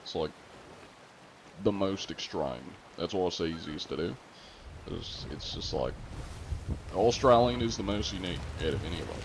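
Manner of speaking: exaggerated Australian accent. Shown as a demonstration. Streamer answering an Australian about accents, exaggerated Australian accent. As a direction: lay on a stereotypical Australian accent.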